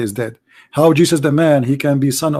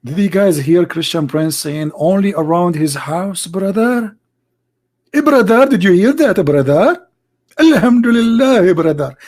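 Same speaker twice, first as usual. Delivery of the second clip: mock Muslim voice; 3 semitones higher than usual. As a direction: parody gleeful opponents. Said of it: "they will record my voice and say".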